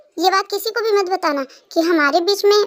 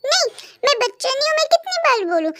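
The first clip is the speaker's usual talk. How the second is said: put-on higher-pitched childish protest; indignant child; 6 semitones higher, faster than usual. Kookie insists to Tete he is no child, indignant. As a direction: protest like an offended little boy.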